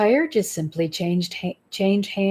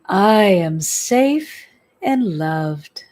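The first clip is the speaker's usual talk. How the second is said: slow, drawn-out "I am safe and loved" with weight on "safe"; slow affirmation; 3 dB louder, much slower than usual. Shown as a demonstration. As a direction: say "safe" longest, each word stretched. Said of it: "and repeat".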